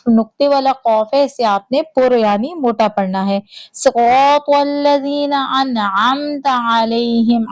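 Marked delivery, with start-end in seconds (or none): 3.7-7.4 انعمت with a clear throat ain, slow. Shown as a demonstration. Teacher stressing the ain for students. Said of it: "عین کی آواز نکالیے گا".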